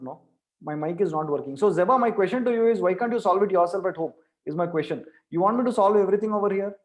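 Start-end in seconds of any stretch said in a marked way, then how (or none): 1.6-6.7 exasperated teacher. Real, not acted. Teacher presses a student to solve it.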